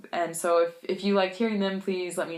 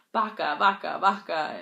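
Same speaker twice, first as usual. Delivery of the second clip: mildly barked correction, a bit louder; retold bark; 4 dB louder than usual. Peruvian friend correcting her Spanish, mock bark. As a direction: imitate a friend barking a correction. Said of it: "he would bark this word at me".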